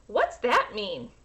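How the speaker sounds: lightly voiced curious girl; a small puzzled child's question; little girl asking. Sophia asking her mother, lightly childlike.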